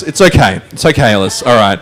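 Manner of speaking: low, softening reassurance; mock soothing. Host reassuring Ellis after the scare, mock soothing. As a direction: settle down into a calm, low voice.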